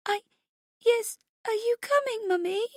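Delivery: put-on high, hiccuping tearful little girl; frightened child's halting plea; trembling child. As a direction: falter through tears in a tiny high voice. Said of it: "Her voice is trembling".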